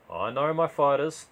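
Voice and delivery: slow, pointed and serious; serious claim. Acted. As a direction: state it flatly like a fact. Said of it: "eyes serious, unlaughing".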